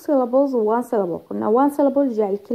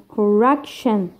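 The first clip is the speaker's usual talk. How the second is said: "correction" with REC stressed; stress on second-last syllable; much slower than usual. Shown as a demonstration. Teacher giving a new example, penultimate stress on "correction". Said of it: "Second from the end".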